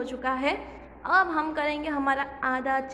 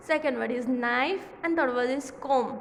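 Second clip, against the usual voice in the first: slow recap; much slower than usual. Shown as a demonstration. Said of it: "slow reading of examples".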